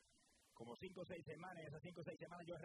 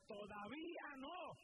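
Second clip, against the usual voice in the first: booming slow call, pitched higher and held long; voice of thunder; 7 semitones higher, much slower than usual. Retold or imitated. God answering the sick man in thunder, slow booming call. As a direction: boom it out like God speaking from a storm. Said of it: "pero con voz de trueno".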